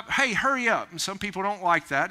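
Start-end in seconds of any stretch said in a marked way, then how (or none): 0.0-0.9 pitched-up pushy nudge; mildly impatient call; brusque urging. Acted. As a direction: hurry someone along bluntly. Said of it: "to be talked to like that".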